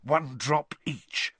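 slow gleeful relish. A narrator's reading. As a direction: savour it with glee. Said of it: "rubbing his hands together with glee".

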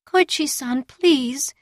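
high pleading name, drawn out; pleading whining voice. A narrator's reading. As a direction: whine his name, begging. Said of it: "in a pleading, almost whining voice".

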